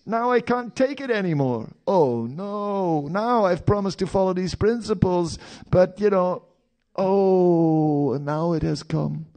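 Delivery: high, loud, frantic inner voice; mock desperate craving. Devotee torn between vows and temptation, high loud hammed-up anguish. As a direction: ham up the tempted devotee's panic.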